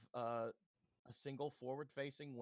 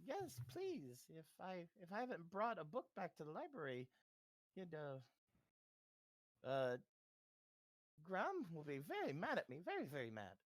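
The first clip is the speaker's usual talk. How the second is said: put-on old woman voice; 2 semitones higher than usual.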